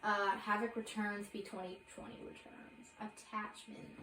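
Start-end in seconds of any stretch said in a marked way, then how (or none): 1.3-4.0 breathless, words running out of air; short of breath after reading a long list. Real, not acted. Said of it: "I am out of breath from saying this".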